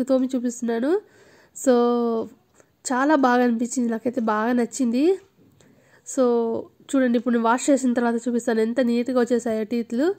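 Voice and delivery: toothbrush in mouth, foamy; muffled speech around toothbrush; talking while brushing teeth. Real, not acted. Seen 0: Toothbrush in mouth with foam, brushing throughout labelled words.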